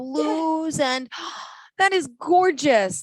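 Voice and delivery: slow, high, marveling praise; awed admiration. Real, not acted. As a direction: gasp over something lovely. Host admires Christmas tree.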